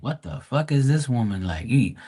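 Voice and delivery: exasperated mock sympathy, rising up; mocking concern. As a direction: tease her like a nurse asking if she's okay. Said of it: "And I'm like".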